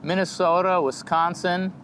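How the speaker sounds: lightly imitated Midwestern Minnesota vowels; Minnesota accent. Shown as a demonstration. Comic testing his accent on state names, mock Minnesota accent. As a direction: savor the place names in Minnesotan. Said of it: "just doing Minnesota".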